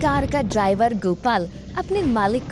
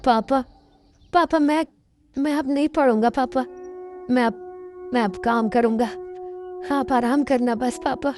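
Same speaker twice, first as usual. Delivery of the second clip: put-on tearful boy; 3 semitones higher than usual. Son gives up school.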